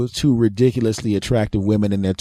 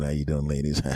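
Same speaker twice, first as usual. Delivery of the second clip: low, softer smooth greeting; casual hiding breathlessness; 7 semitones lower, 9 dB quieter than usual. Retold or imitated. Patient flirting with the women, hiding breathlessness, low and soft. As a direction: play it cool though winded. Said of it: "not to sound like I'm out of breath".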